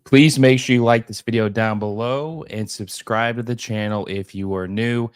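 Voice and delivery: scratchy, hoarse throat; a little hoarse from being sick. Real, not acted. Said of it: "I apologize for the scratchy voice".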